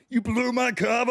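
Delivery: high, loud mock outcry; mock outburst. Podcast host imagining co-host's reaction, hammed-up outburst. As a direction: cry it out in hammed-up outrage. Acting out Gibbs blowing up.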